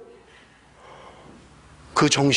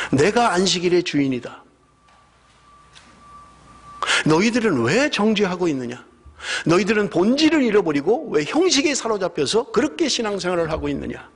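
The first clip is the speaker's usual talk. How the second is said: rebuking Lord; 5 semitones higher than usual. Acted. Lord rebuking, quoted in sermon.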